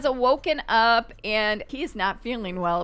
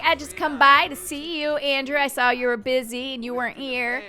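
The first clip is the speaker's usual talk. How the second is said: put-on higher, playful girl voice for the sims character; higher mock-girlish voice, a light character bit; Lettice's voice; 4 semitones higher than usual. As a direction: voice the fiancée sweetly and a bit higher. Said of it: "She's like".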